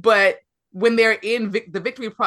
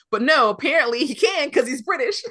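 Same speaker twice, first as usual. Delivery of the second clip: amused laughing; 5 semitones higher than usual. Real, not acted. Laughs at own mistaken assumption.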